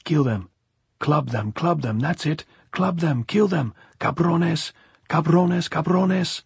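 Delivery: frenzied chant-like shouting, building in pitch; drunkard shouting. A narrator's reading. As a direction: egg on the mob, rising to a high yell. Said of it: "against the bars and shouting".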